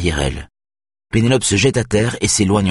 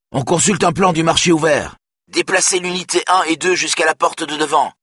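higher, urgent radio shout; 9 semitones higher than usual. A narrator's reading. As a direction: yell the orders across the channel. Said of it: "crie quelqu'un d'autre".

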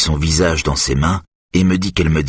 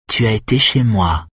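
higher, mocking throw-back; retorting mimicry; 5 semitones higher than usual. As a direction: throw his words back at him. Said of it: "rétorqua-t-elle".

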